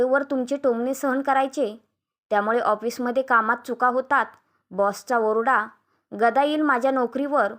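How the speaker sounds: understated indignant tirade; शाब्दिक तोफांचा मारा. Acted. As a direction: fire off grievances one after another. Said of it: "Aishwarya एकावर एक शाब्दिक तोफेची सलामी". (थोड्या संतापात तक्रारींचा भडिमार)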